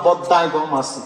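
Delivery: a hint of Chittagong dialect, said dropping in pitch; Chittagonian dialect. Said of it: "তার মানে আমরা যেটা বলি".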